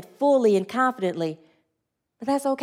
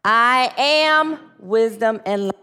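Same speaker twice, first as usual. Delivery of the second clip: a slow, firm group affirmation; slow spoken affirmation; slower than usual. Shown as a demonstration. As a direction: declare each word slowly from the heart. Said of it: "And one more time".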